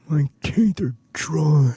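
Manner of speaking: slow whispered character voice; creepy drawn-out whisper; Edgar. Acted. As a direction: whisper it, stretching every word right out. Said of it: "that's more Edgar".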